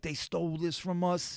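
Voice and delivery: mildly emotional retold complaint. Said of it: "getting real emotional".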